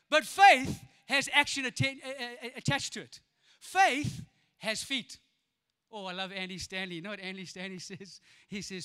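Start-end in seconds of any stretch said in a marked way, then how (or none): 3.6-5.2 very slow, each word hit; slow emphatic punch. Acted. Preacher driving home his point. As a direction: land it word by word.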